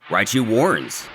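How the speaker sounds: usual speaking voice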